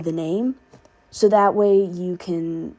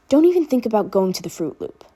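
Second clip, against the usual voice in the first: almost snarled; 3 semitones higher, 4 dB louder, faster than usual. Acted. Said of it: "Danny all but snarled".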